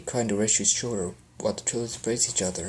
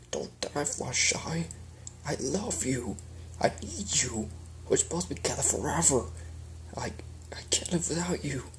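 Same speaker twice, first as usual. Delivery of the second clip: tearful plea; 3 semitones higher, 3 dB quieter than usual. Acted. Tears formed, pleading.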